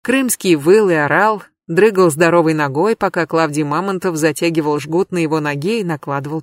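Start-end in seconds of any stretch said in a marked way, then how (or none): none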